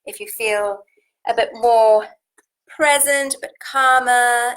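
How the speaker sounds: slightly husky, worn voice. Real, not acted. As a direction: voice going a bit husky. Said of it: "My voice went a bit husky at the end there".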